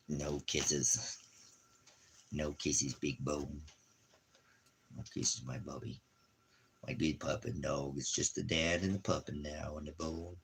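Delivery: soft, low doting murmur; tender pet talk. Real, not acted. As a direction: murmur it to a cuddling dog. Murmuring to the dog cuddling him.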